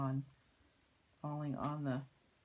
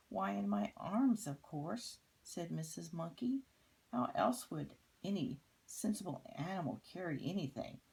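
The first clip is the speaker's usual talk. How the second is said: higher, matter-of-fact monkey lady; Missus Monkey voice; 4 semitones higher than usual. Acted. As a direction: answer as if it's obvious.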